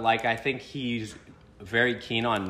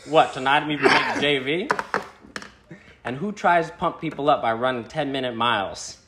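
raised, forceful mock questioning, then scorn; Bryn impression; 3 semitones higher, 3 dB louder than usual. Reading out the text's sports insults, imitated taunting. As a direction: lightly mimic a mocking accuser. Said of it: "In my best, uh, Bryn impression".

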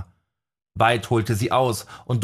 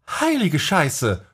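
gasped curse; 7 semitones higher, slower than usual. A narrator's reading. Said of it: "keuchte sie".

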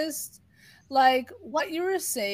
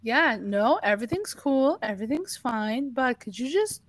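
eerily calm. Retold or imitated. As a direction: say it like nothing at all is wrong. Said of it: "I'm eerily calm".

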